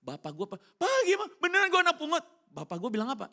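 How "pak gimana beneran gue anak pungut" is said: put-on much higher, louder anxious child; little child voice. Young son asking father if he's adopted, child voice. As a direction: ask dad like a worried small boy.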